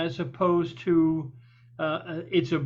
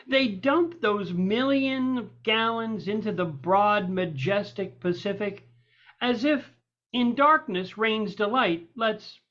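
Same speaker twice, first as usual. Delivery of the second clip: measured poetry reading with lifted key words; poem recitation. Acted. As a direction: recite it as verse, unhurried and deliberate.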